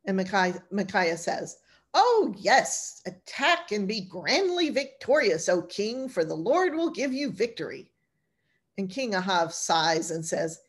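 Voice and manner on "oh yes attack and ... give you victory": mock flattery. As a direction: lay the grand prophecy on thick so nobody believes it. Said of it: "Stop with the B S".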